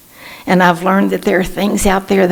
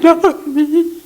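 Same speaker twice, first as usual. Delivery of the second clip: mock protest; 10 semitones higher than usual. Retiree telling the center lady she isn't happy, high mock protest.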